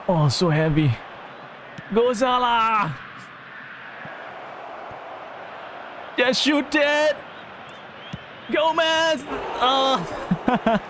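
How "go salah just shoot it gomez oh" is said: high, drawn-out yell at the players; urgent calling out. Real, not acted. Gamer urges players to shoot, urgent yelling. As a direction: urge them on high and stretched out.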